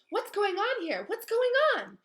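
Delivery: very high, loud barking questions; angry demand. Acted. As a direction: demand answers furiously. Filch arriving angrily.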